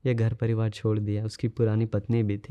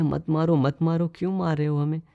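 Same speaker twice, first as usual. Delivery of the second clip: mild retold pleading; 5 semitones higher than usual. Monk asks the thugs why they attack him, mild pleading. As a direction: plead lightly as a storyteller would.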